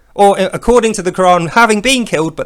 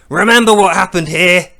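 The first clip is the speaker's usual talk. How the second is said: a touch of anger, raised voice; mock-angry reminder; angry call; 4 dB louder than usual. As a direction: call it out as a mildly angry warning. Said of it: "he's angry that they got away".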